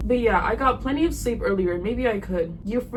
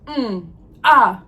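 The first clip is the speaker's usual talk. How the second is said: mocking infantile monosyllables; mock baby talk; 3 semitones higher, much slower than usual. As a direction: mimic a baby's grunts and coos. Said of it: "He's talking like a baby".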